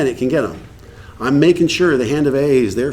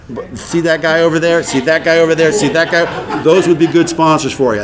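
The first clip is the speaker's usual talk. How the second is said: laughing while quoting; 3 semitones higher, 3 dB louder than usual. Retold or imitated. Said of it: "She says".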